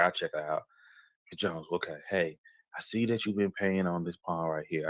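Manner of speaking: quiet, kindly talk to a regular customer; gently offering her a way out; soft reassuring offer. Retold or imitated. Coworker to struggling customer, quiet and reassuring. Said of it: "I said".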